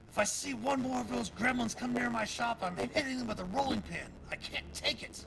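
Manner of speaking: high, loud exasperated threat; fed up, ready to swing a rolling pin; annoyed baker. Acted.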